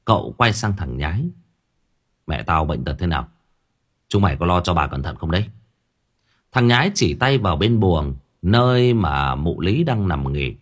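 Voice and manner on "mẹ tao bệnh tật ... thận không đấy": put-on lower, quick anxious questions from a young master; young master's voice. Young master grilling his servant about his sick mother, low and quick. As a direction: press the servant for news, low and fast.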